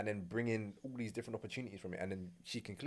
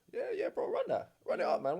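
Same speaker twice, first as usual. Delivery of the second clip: egging on; 3 dB louder than usual. Retold or imitated. Acts out friend urging him on.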